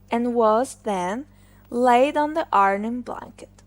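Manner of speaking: usual speaking voice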